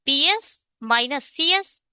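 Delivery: drawn-out formula terms; slow dictation. Shown as a demonstration. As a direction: say the formula slowly for copying. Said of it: "teacher slowly dictates formula". (धीमे स्वर में formula)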